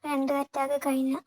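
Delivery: put-on old father, loud and grieving. A narrator's reading. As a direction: pour out his guilt, close to tears. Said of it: "തോളിൽ കിടന്ന് തോർത്തുകൊണ്ട് ... രണ്ട് കണ്ണുകളും തുടച്ചു".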